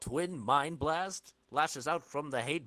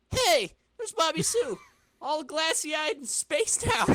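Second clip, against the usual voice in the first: higher, louder, eager discovery; excited spotting; 9 dB louder than usual. Acted. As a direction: point her out eagerly. Flash spots Bobby Sue.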